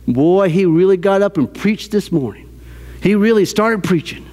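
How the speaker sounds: lightly imitated Southern grandma; Southern accent. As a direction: retell it with a mild Southern accent. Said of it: "with her very strong Southern accent".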